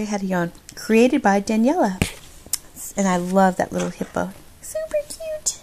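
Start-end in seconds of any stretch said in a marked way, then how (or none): 4.6-5.6 very high, much softer coo; cooing whisper. Real, not acted. Vlogger cooing softly over a little hippo drawing. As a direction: breathe it out in a tiny delighted voice.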